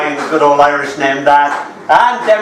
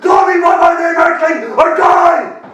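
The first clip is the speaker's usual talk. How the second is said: booming alien warlord; 11 semitones higher than usual. Pretend. Introducing himself to Stephen as a booming warlord. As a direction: declaim it like a mighty alien warrior.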